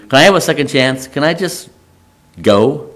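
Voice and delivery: halting, mildly pleading questions. Acted. Moses asking God for a second chance, pleading. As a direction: plead gently, pausing between attempts. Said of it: "Moses is basically pleading".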